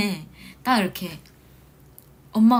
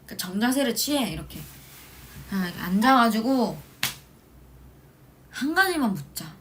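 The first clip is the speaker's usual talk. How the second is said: ordinary delivery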